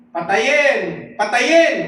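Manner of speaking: loud, high mob cry; crowd's shout. Acted. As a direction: yell it like a crowd demanding death. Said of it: "ang sigaw nila ay". (pasigaw na parang galit na madla)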